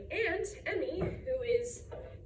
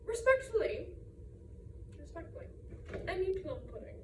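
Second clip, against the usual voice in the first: prim aunt; 5 dB quieter, faster than usual. Retold or imitated. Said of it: "would have me say them like this".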